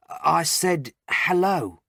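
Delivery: patient covering his words with a loud hello. A narrator's reading. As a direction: loudly cover up what you muttered. Covering what he said, loudly.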